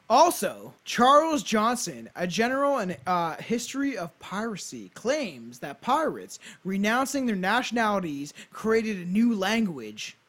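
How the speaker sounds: storyteller read with punched key words; measured, emphatic read-aloud; scripted narration. Acted. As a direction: present it like a podcast history script. Reads a scripted history.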